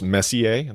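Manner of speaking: "Messier" said like the hockey player's name; guessed pronunciation. Shown as a demonstration. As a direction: say "Messier" the French way, ending in "ee-ay". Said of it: "I'm guessing this one's pronounced".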